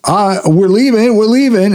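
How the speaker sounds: high-pitched imitation of a departing wizard; mock wizard calling out. Wizard warning Dorothy the balloon is leaving, mock high call. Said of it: "the wizard dude is like".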